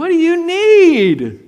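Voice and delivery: loud, high, slow, impatient voice.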